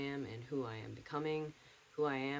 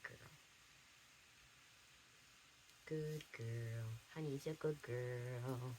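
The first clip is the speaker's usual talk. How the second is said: soft, high sweet voice for the dog; doggy talk; 3 semitones higher, 7 dB quieter than usual. Real, not acted. Calling her dog over in soft, higher, sweet doggy talk. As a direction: coo gently at the dog.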